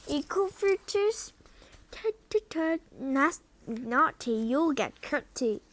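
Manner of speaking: high, teasing tut-tut voice; mocking poltergeist. Peeves mocking the students, high teasing singsong. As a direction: wag a finger at naughty children.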